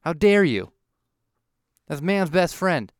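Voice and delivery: indignant rant. Retold or imitated. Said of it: "I was like".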